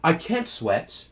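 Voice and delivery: a posh-ish British Prince Andrew parody; lightly done British accent. Retold or imitated. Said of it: "I'm gonna do a British accent".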